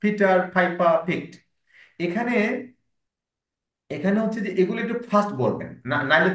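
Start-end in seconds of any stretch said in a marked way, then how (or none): 0.0-1.4 very slow, word by word; slow model reading. Shown as a demonstration. Teacher slowly models the ending for the student. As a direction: drag every word out for them. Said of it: "pronunciation গুলো একটু বলছি".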